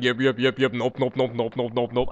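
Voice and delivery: chanting alien "yip" and "nope" noises; lightly voiced alien chant. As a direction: imitate the Sesame Street aliens chanting. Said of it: "They were like".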